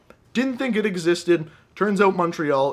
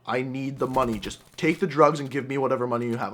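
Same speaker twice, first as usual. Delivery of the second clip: insistent drug dealer; 4 semitones lower, 3 dB quieter than usual. Acted. Voices dealer pressing for money.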